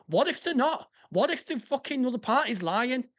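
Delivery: worked-up, indignant questioning; annoyed rant. Real, not acted. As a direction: rant through rhetorical questions, really annoyed. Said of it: "it fucking annoys me".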